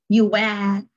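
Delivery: British "you were", R dropped into a schwa; non-rhotic British "were"; British accent. Shown as a demonstration. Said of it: "Por ahí no mencionan la R".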